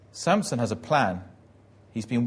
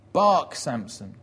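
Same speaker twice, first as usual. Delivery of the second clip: loud, slow jeering order; shouted command; 5 dB louder, slower than usual. Retold or imitated. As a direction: call out a drawn-out command to a captive. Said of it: "somebody shouts".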